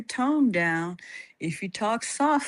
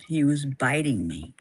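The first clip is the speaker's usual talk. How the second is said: unvoiced hushed whisper; 5 semitones lower than usual. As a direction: drop to a breathy secret whisper. Retelling being bitten.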